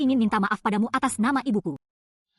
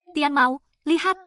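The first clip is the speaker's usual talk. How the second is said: excited call; 4 semitones higher, slower than usual. Acted. Spotting the protest banner.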